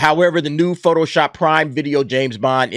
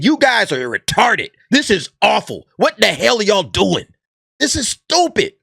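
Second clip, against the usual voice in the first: mock outraged quote; 4 semitones higher than usual. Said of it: "and saying".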